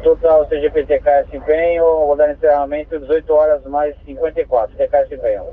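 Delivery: crackly two-way radio transmission; squelchy handheld radio; police radio. Real, not acted. Dispatcher closes call over radio.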